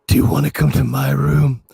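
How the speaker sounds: a hint of a smooth German seducer; imitating Werner. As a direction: sweet-talk him in a mock German voice. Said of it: "It's the way he says".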